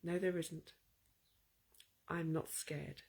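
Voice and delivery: said to myself. Retold or imitated. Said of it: "I said to myself".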